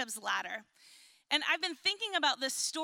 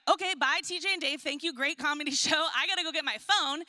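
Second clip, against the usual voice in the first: hurried goodbye; 2 semitones higher, 4 dB louder than usual. Retold or imitated. Hurrying off from the comedy show.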